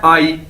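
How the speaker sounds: आई said like English "I"; pronunciation demo. Shown as a demonstration. Teacher shows how AYI is read, pronunciation demo. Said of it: "इसको pronounce कैसे करना है".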